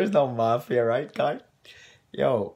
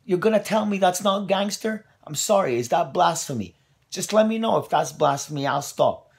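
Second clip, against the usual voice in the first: worked-up rant; 4 semitones higher, 4 dB louder than usual. Real, not acted. Heated rant about Jesus in temple.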